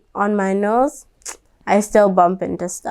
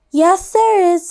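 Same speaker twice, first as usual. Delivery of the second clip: put-on defiant girl; 7 semitones higher than usual. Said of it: "said Stephanie".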